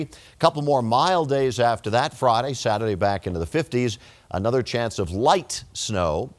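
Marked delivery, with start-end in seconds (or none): 4.3-6.3 light leaned on, slowed; light drawn out slowly; stress on light. Real, not acted. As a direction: hit the word light gently. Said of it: "emphasis on the word light".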